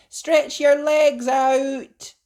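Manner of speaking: high, slow, loud coaching call; mother coaching. A narrator's reading. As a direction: coach the kids gently but clearly. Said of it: "she said".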